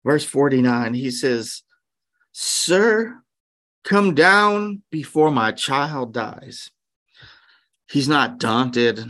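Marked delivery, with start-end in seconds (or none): 2.3-6.7 urgent plea. Retold or imitated. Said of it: "speaks with a sense of urgency".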